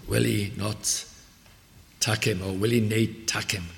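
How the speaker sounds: a quiet hint of broad Scots preacher; broad Scottish accent. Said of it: "preaching in broad Scots".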